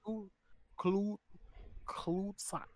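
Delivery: barely voiced, soft whisper. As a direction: drop to a secret whisper on the word. Hesitant whisper of the slur.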